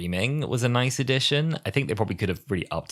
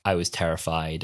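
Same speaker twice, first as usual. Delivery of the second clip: neutral, understated delivery; matter-of-fact; 3 semitones lower than usual. Acted. Imitating the angel speaking through Bob, matter-of-fact. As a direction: say it with no feeling at all. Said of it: "really matter of factly".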